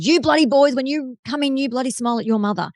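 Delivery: exasperated father ordering his sons to smile; retold yell. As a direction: bark it at the boys like a fed-up dad, mock-stern.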